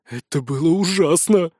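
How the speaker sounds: mildly shuddering complaint; shaken, sighing. A narrator's reading. Wizard steps onto other bank, shaken and sighing. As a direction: sigh it out, still a little shaken. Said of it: "сотрясаясь и вздыхая".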